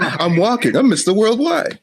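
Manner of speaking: a hint of a rapper's bravado in own voice; mock rapper impression. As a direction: hype it up like a party rapper, half-joking. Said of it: "do your rapper".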